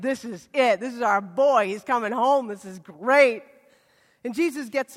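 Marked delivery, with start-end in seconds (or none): 0.0-3.4 excited. Retold or imitated. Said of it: "They are excited".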